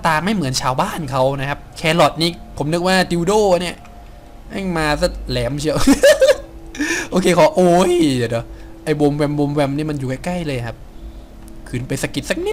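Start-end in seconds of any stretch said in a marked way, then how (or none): 5.8-7.0 high, loud burst of laughter. Real, not acted. Laughs at pointy carrot.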